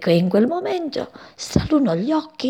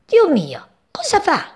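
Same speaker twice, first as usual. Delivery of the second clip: breathless gasp rising to a high shriek; frightened cry; 9 semitones higher than usual. A narrator's reading. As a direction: cry out in panic. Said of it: "gridò la passeretta". (grido acuto e impaurito della passeretta)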